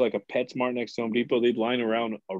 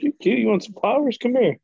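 very high, louder come-on; mock flirty; 11 semitones higher, 4 dB louder than usual. Coworker offers women hidden flowers, mock flirty. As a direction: lure them over in high-pitched mock flirting.

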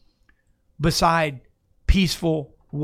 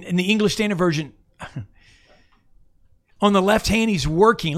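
full-force preaching; 2 semitones higher than usual. Acted.

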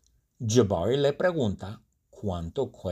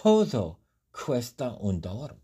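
a high, exasperated "ugh", then a scornful retort; rude clerk; 5 semitones higher than usual. Acted. The clerk rudely answers Jabari's price question, high and scornful. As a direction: brush off a dumb customer with disdain. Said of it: "un poco grosera, me responde".

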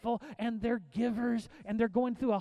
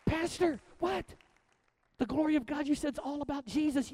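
mock congregant; 5 semitones higher than usual. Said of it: "congregant quoted addressing pastor".

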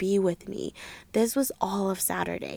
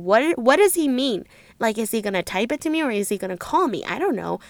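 louder, quick anxious questions; panicked wondering; 6 dB louder than usual. Retold or imitated. Pacing back and forth wondering what he means, panicked. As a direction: reenact racing, panicky thoughts. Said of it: "I'm panicking, okay?".

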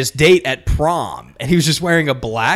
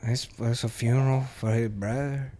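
customer; 2 semitones lower, 8 dB quieter than usual. Retold or imitated. Customer voiced in story.

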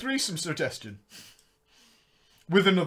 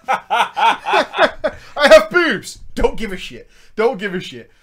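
mocking girlfriend voice; 6 dB louder, much slower than usual.

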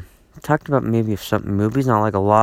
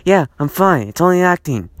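sarcastic reply; 6 semitones higher, 4 dB louder than usual. Retold or imitated. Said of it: "people who've been asking me".

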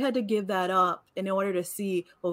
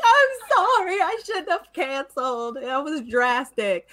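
retold crying apology; 5 semitones higher than usual. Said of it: "I start crying".

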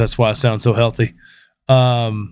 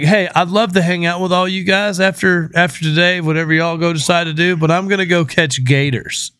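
higher-pitched breezy quote of the guest; imagined guest quote; 5 semitones higher than usual. Retold or imitated. Host voicing the guest bowing out to catch gators, casual higher voice. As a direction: toss it off as her casual excuse.

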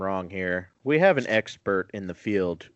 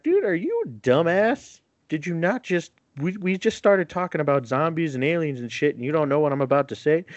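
higher, mock-exasperated airman scolding his buddy; 6 semitones higher than usual. Airman scolds his partner for missing it, exasperated. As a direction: play the fed-up soldier, pitched up. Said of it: "And he's like".

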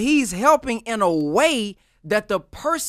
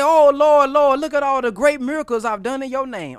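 mock eager appeal; 4 semitones higher than usual. Acting believers showing Jesus their miracles, eager appeal. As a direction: call out proudly to the Lord, lightly hammed-up.

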